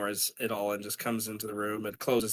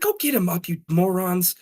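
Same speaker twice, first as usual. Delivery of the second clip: high, curt order to the men; annoyed order; 7 semitones higher, 4 dB louder than usual. Retold or imitated. Annoyed mother telling the gang to help Jimmy up, high curt order. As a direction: bark it like an irritated boss. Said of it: "And she's like".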